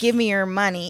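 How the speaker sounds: ordinary delivery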